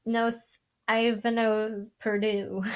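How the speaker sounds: clumsy attempt at reading French; halting French. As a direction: stumble through French as a non-speaker. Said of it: "I'm not good at French".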